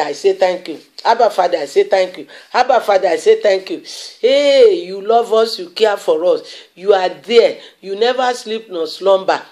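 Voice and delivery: fervent prayer voice, rising on thanks; preacher praying over the church; thanksgiving prayer. Acted. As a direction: pray aloud to the Father with praise.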